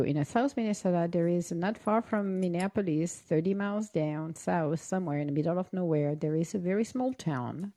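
mock-earnest small-town Minnesota accent, softly spoken; soft tall-tale telling in Minnesota accent; South Minnesota accent. Guest inventing a hometown, South Minnesota accent. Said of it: "we all have the same accent".

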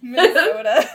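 high, loud burst through laughter; laughing. Real, not acted. Answering the cohost's question about where that is, laughing.

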